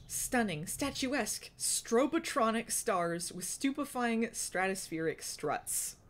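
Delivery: slow, grand announcer reading of the title; dramatic title read. Shown as a demonstration. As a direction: announce it like a blockbuster title, slowly. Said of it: "I will read it again".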